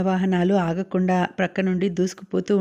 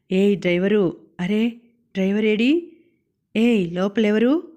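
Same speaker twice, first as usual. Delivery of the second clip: loud demanding call. Acted. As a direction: demand it across the crowd. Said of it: "గట్టిగా అడిగాడు". (గట్టిగా పిలుస్తూ అడగడం)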